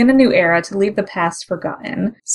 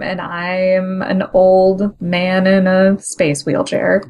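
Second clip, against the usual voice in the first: slow mock speech; slower than usual. Mocking old Prime's self-pity.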